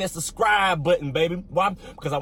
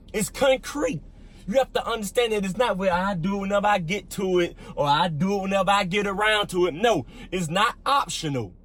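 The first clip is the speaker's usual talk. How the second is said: raised, insistent preacher voice; emphatic preaching; 3 semitones higher than usual. Real, not acted. Pastor tells listeners God's law is not optional, emphatic preaching. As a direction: press each point home like a command.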